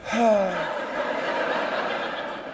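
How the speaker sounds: long, unimpressed sigh; long exhale. Shown as a demonstration. Audience member refusing to laugh at the comedian, long sigh. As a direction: let out a long breathy sigh.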